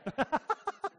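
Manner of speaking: bright laugh at the joke; amused laugh. Real, not acted. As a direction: laugh along with the crowd. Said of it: "That was fun".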